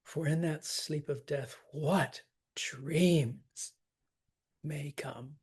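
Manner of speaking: WHAT hit firmly within the verse; stress on WHAT. Shown as a demonstration. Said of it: "I would hit that what too".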